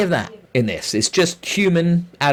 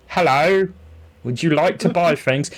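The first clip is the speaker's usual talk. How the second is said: lightly voiced odd shopkeeper; a hint of a cheery NPC merchant; game trader voice; 4 semitones higher than usual. Imitating the trader greeting after being shot, lightly put-on merchant voice. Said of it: "I really hope that's an imitation of the actual voice".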